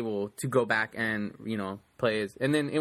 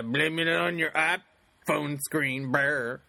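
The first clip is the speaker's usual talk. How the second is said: teasing mockery; 2 semitones higher, much slower than usual. Teasing her excuse.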